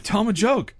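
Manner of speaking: high retold insistence; Norm Macdonald. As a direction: press him to perform, mock-urgent. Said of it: "Don't embarrass me".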